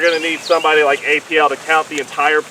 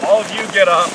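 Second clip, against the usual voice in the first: calling from far away; 3 semitones higher, 5 dB louder than usual. Real, not acted. Ordering group up.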